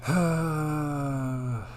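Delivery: soft, choked-up thanks with long pauses; emotional. Real, not acted. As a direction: overcome by gratitude, sighing between quiet words. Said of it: "you guys like making me emotional".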